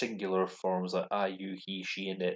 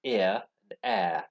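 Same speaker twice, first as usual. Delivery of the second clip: British RP air; 6 dB louder, slower than usual. Shown as a demonstration. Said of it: "British received pronunciation accents".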